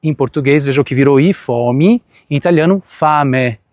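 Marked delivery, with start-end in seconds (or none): 2.3-3.6 "fame" ending in a clear open E, not reduced; fame with open final E. Shown as a demonstration. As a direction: say "fame" keeping the final E as a full vowel. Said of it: "devo pronunciar esse E do jeito que ele é". ("fame" com o E final bem pronunciado)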